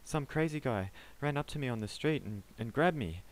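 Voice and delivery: panicked pleading. Acted. Panicked man pleads his case.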